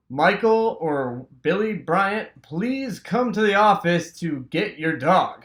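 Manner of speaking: slow, deliberate loudspeaker announcement; school announcer. Retold or imitated. School office calls the brothers over the loudspeaker, slow announcement.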